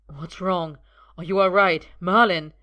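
worried calling out. A narrator's reading. Merlin collapses, Arthur rushes over.

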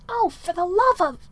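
exasperated, cut off mid-sentence; exasperated outburst. A narrator's reading. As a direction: throw up your hands in exasperation. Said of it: "Merlin's exasperated whisper".

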